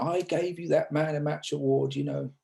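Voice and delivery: mock-gruff Yorkshire accent, played for a laugh; Yorkshire accent impression. Retelling an old cricketer's gruff remark, in a light Yorkshire accent. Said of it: "in his typical Yorkshire accent".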